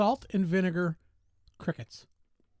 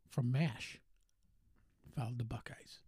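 whisper; 6 semitones lower, 9 dB quieter than usual. Acted. Repeats it in a whisper.

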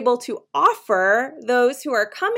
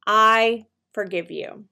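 sincere forgiveness. Shown as a demonstration. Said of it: "Say it with me right now".

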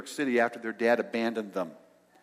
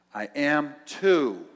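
stubborn insistence; 2 semitones higher, 4 dB louder, much slower than usual. Retold or imitated. Woman insists louder, slowly.

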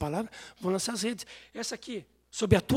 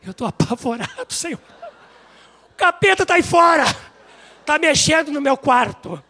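frightened plea; 7 semitones higher, 9 dB louder than usual. Retold or imitated. Retold frightened plea to the Lord.

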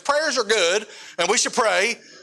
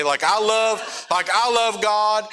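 choked up; 4 semitones higher, slower than usual. Real, not acted. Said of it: "I'm a crier".

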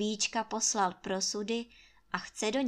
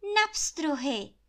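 curt; 7 semitones higher, 5 dB louder, slower than usual. A narrator's reading. Anče's curt answer.

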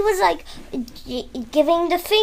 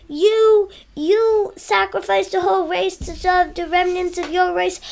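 angry; 3 semitones higher than usual. Retold or imitated. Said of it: "the Doctor got all mad at her".

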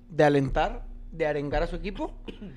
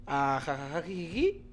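slow mocking giggle, a bit softer; mock giggling; 4 semitones lower, 7 dB quieter than usual. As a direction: giggle it like careless fans. Mocking fans having fun. (risita burlona)

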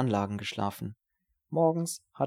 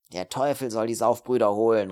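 angry call; 6 dB louder than usual. Acted. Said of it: "rief die Stimme ärgerlich".

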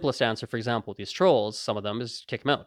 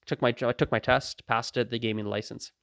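serious, unruffled. Acted. Driver telling where the license came from, unruffled. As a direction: answer it like small talk. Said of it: "as if it's a serious question".

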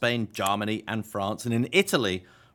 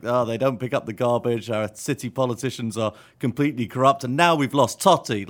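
louder, imitating upset fans; mock outrage; 6 dB louder than usual. Co-host voices crazed Italian Twitter, mock outrage. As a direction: build to an exasperated cry on the last phrase. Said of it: "Italian Twitter went crazy".

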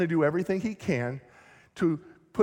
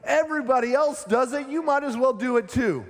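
tempting demon, higher; 6 semitones higher than usual. Acted. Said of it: "the demons are gonna tell you".

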